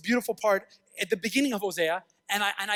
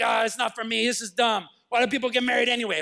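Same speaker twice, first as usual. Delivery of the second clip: grumbling tough guy; 2 semitones higher, 3 dB louder than usual. Acted. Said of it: "even a tough guy".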